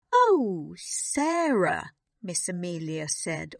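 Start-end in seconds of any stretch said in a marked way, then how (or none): 0.1-1.9 higher, near-tearful cry of her name; almost crying. A narrator's reading. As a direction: voice on the edge of tears. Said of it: "almost crying".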